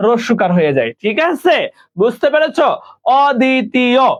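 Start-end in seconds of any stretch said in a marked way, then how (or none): 3.2-4.1 অদ্বিতীয় sounded out evenly as "od-di-ti-yo"; উচ্চারণ দেখানো. Shown as a demonstration. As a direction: pronounce অদ্বিতীয় carefully, syllable by syllable. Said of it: "অদ্বিতীয় উচ্চারণটা দেখে নাও".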